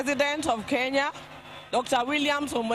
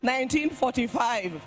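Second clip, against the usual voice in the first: solemn, measured eulogy reading; faltering tender eulogy. Acted. Reads eulogy at state funeral.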